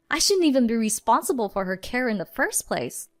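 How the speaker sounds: arguing. Acted. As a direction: push back hard at him. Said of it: "I argued".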